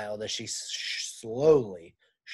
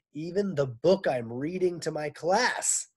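raised, loud complaint; complaining teacher; 4 semitones higher, 5 dB louder than usual. Acted. Teacher griping to men, loud complaint. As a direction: Miss Zarves whining for respect.

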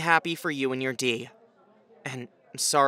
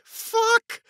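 high panicked yelp; 5 dB louder than usual. Acted.

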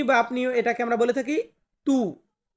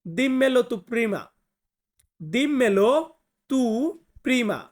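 slow teaching read; much slower than usual. Shown as a demonstration. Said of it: "এটা বলতে গেলে আমরা বলবো".

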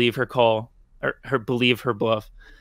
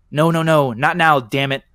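murmured; 3 semitones higher, 4 dB louder than usual. Acted. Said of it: "I murmured under my breath".

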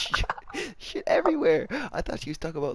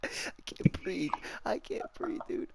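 breathless laughter; 5 dB quieter than usual. Real, not acted. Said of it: "Just stop laughing".

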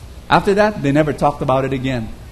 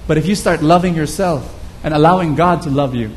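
heartfelt preaching. Acted. Preacher urging his listeners to let God heal them, earnest preaching. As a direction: preach it, pressing the point home.

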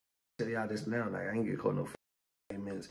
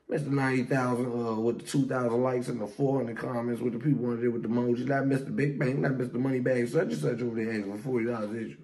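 loud, raised-pitch taunting; mocking name-calling; 3 semitones higher, 5 dB louder than usual. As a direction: rattle off the titles in loud scorn. Mocking the friend with nicknames.

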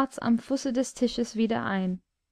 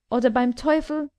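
roaring threat; 2 semitones higher than usual. Acted. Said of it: "brüllte der Unhold".

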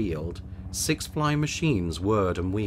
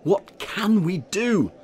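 high, loud, slow worried question; a fussy mayor pleading with his village; slow, higher and louder anxious mayor; mayor asking; 12 semitones higher, 7 dB louder, slower than usual. A narrator's reading. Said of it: "Mayor Muddlenut asked them all".

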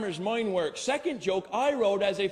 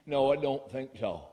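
put-on old man; 7 semitones lower than usual. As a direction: lower old-timer voice. Old man refuses frog.

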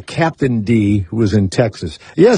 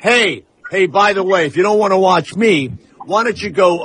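higher-pitched taunt to the audience; brash host challenge; 5 semitones higher than usual. Pretend. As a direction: play a cocky host calling out viewers. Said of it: "I would come on and go".

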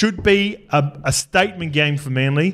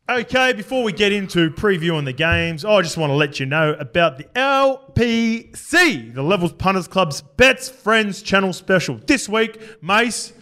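slow, punched-out promo announcement; promo read; 3 semitones higher, slower than usual. Acted. Host introducing the punters club special to listeners, promo read. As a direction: sell the segment, spelling out the letters slowly.

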